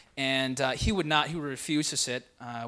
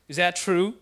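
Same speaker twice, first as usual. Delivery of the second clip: louder, lightly imitated dad questioning his son; stern dad; 3 semitones higher, 6 dB louder than usual. Dad confronting his son about disrespect, lightly voiced stern question. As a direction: put the question to him firmly, as the dad. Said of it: "so he looked at him".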